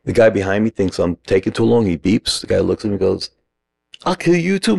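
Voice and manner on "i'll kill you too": very high-pitched retold threat; mock threat. Ranting man threatens the honking driver behind, high mock threat.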